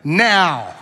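slow, bratty, drawn-out demand; whiny spoiled child, slowly; Veruca Salt demand. Retold or imitated. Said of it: "Willy Wonka and the Chocolate Factory".

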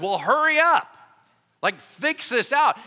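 annoyed father snapping at the disciples; impatient demand. Acted. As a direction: hurry them up, fed up. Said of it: "He's like".

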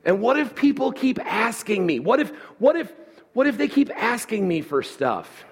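high mock complaint; mildly indignant what-if; whiny protest. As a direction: pitch it up like a pestered listener.

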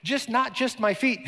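high, loud eager outburst; exclaiming. Acted. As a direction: blurt it out overeager.

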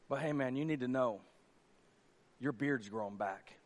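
soft, low-key man-to-man comfort; hushed consoling. Acted. One ashamed soldier gently comforting another, quietly. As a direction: lean in and say it gently.

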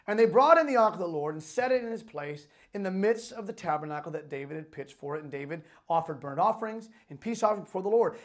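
animated, emphatic Bible reading; proclaimed scripture, phrase by phrase. A narrator's reading. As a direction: read the verses out with preacher's emphasis. Reads scripture aloud to congregation.

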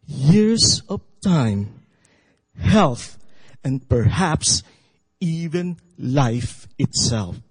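measured storytelling voice; story narration. Acted. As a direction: read the tale with suspense. Continues the story reading.

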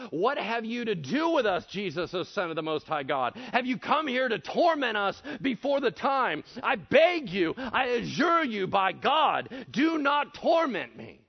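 high, loud begging demons; loud pleading cry. Acted. Demons begging Jesus, a loud pleading cry. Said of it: "They cried out with a loud voice".

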